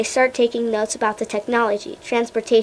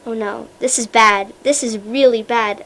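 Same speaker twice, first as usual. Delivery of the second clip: louder, shaky worried voice; 5 dB louder than usual. Acted. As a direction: let the voice shake with worry. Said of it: "Elliot's voice shakes".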